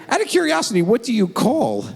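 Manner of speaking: mock casual question; fake casual probe. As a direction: sound offhand while digging. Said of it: "So I say".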